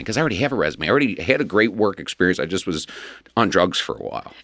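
casual, matter-of-fact admission; nonchalant. Real, not acted. Guest admitting past drug use to the host, nonchalantly. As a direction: toss it off quietly, dropping away at the end. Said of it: "you just said it so nonchalantly".

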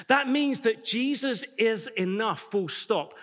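"Jesus is enough, full stop" said slowly and weighed; emphatic full stop. Shown as a demonstration. Preacher pressing the congregation: slow, weighty stress on "full stop". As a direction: hammer home "full stop". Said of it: "A full stop means end of sentence".

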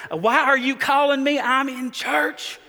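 hiss-shout into the phone; whisper yell. Retold or imitated. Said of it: "that whisper yell".

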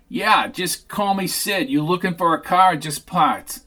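a hint of a brash, easygoing Sid; Sid's voice. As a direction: play Sid as a swaggering salvage man. Narrator voicing Sid greeting them.

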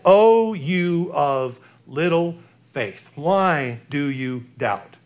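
slow, low, tender rebuke; gentle rebuke. Retold or imitated. Jesus gently rebukes Peter.

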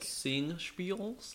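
high, loud disbelieving question; incredulous echo. Real, not acted. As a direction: shoot up in pitch on Singspiels. Incredulous echo of odd word.

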